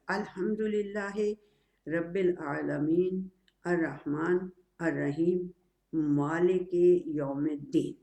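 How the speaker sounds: slow, measured recitation of the verse; Quranic recitation. Shown as a demonstration. (آہستہ، ٹھہر ٹھہر کر تلاوت)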